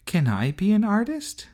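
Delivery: put-on high, eager small boy voice; little brother. Little brother asking sister, high eager child voice. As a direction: ask hopefully like a little kid.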